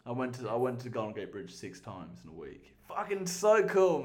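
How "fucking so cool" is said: laughing. Real, not acted. Laughs recalling bridge.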